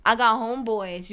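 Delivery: high, loud, worked-up pleading; retold flustered excuse. Worker explaining herself to her manager, high pleading. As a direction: plead your case loudly, re-enacting it.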